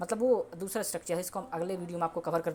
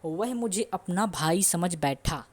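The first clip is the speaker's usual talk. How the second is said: each word said slowly for learners; slow dictation; 4 dB louder, much slower than usual. Shown as a demonstration. Teacher reading the example slowly to students. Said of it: "तो example है".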